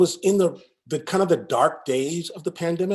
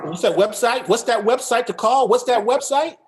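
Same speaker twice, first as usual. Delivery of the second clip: higher and louder, rising each time; eager repeated question; 7 semitones higher, 5 dB louder than usual. Acted. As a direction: press them for the website, playfully. Playful repeated prompt for the website.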